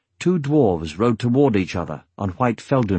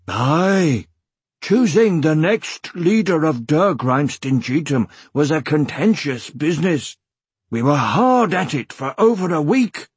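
higher, emphatic gruff dwarf; gruff dwarf clan chief; 5 semitones higher than usual. Acted. Dwarf chief tells his friend of the election, gruff. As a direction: play a gruff dwarf recounting hard business.

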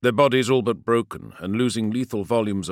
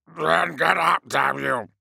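stern order; 8 semitones higher, 4 dB louder, slower than usual. Acted. Captain orders fallen comrade.

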